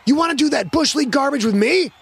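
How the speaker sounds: high-pitched, outraged yell; angry shouting. A narrator's reading. Quarterback held back from the lineman, angry shouting. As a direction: shout it as a furious challenge. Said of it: "kept pointing and kept shouting".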